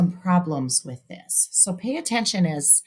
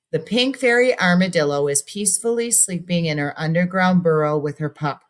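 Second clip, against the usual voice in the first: paused reading. Shown as a demonstration. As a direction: read with a breath at the period. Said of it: "I breathed there".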